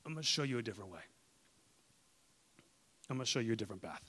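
softly, with quiet reassurance; gentle voice. Acted. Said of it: "just the gentle voice that says".

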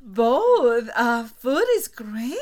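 loud laughing answer. Real, not acted. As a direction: laugh it out loudly. Answering both, laughing loudly.

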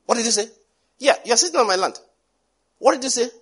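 loud and rising, daring him to repeat it; menacing challenge. Acted. Giant Og challenging David over his land, loud menacing challenge.

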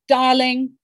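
mock-theatrical teacher, loud opening sinking to a slow near-whisper; big "Darling", then hushed and drawn out; imitated voice teacher. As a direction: play a voice teacher delivering a slow verdict. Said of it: "this voice teacher saying to me".

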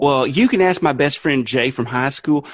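earnest mock-preacher Southern accent; Southern televangelist. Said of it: "gonna be a televangelist".

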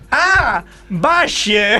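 Argentine "valle" said as bashe, with a sh sound; Argentine accent. Retold or imitated. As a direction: imitate the Argentine teacher saying valle as bashe. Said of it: "La pronunciación".

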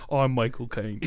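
lightly put-on Cockney impression; Michael Caine. Reader riffing on co-host's remark, mock Michael Caine. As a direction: do a bad Cockney film star. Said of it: "You sound like a mentally handicapped Michael Caine".

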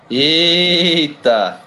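sudden high excited exclamation; surprised. Real, not acted. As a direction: greet the arrival with a surprised shout. Someone arrives on the call.

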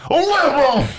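"Liberal" high and loud, head shaking instead of a B; jowl-shaking Liberal. Retold or imitated. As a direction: shake the head through "Liberal" and drop the B. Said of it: "He doesn't even make the B sound. He just shakes his head".

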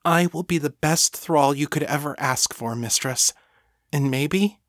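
lightly voiced, eager thrall; devoted servant. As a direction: pledge yourself eagerly to your mistress. Voices Lena in story.

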